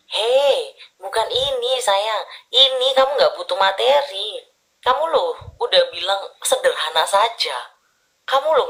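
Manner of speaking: a touch of playful protest, slowed on the middle; mock protest. Reader voices the client gently scolding her boyfriend, mild protest. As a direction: lightly chide a partner, not really angry.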